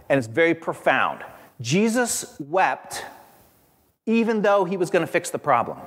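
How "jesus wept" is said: each word drawn out and set apart; slow, weighty reading. Shown as a demonstration. Preacher savoring the shortest verse, said very slowly. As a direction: let Jesus wept sink in slowly. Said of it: "very simple".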